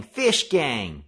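loud panicked cry; frightened warning yell; terrified cry. Acted. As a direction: echo the warning as you run. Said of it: "terrified cries of".

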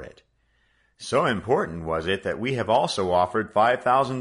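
a lightly voiced proud father; praising father. A narrator's reading. The father praises Joe warmly.

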